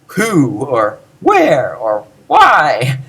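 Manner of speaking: mild mock yell on each question word. Shown as a demonstration. Teacher showing what you don't do, mock-yelled question words. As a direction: blurt who, where, why with exaggerated force. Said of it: "you don't yell".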